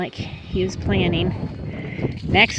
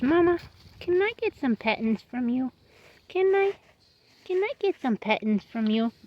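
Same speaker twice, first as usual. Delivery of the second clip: lightly voiced horse asking, a bit higher; voicing the horse; 5 semitones higher than usual. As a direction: beg for pets as the horse, lightly. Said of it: "He says".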